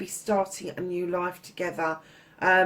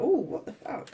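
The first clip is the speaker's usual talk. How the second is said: intrigued what-the-fuck; 3 semitones higher, 4 dB quieter than usual. Acted. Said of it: "And then it's like".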